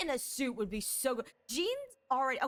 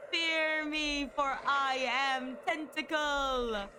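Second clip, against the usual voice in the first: sneering panto villain; 3 semitones higher, much slower than usual. Acted. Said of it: "I am becoming the tentacle monster".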